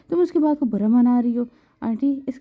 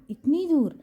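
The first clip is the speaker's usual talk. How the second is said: a short surprised question lifted high; a touch of gasping disbelief; sister-in-law hears she is moving far away, surprised; astonished; 5 semitones higher, slower than usual. Acted. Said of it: "Rabia حیرت سے منہ کھولے بولی".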